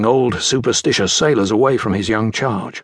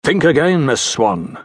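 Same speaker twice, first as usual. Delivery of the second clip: pointedly; 4 semitones higher than usual. Acted. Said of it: "Norrington replied pointedly".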